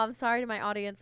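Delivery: mocking repeat. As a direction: sneer at "sorry" and lean on it. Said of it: "first of all".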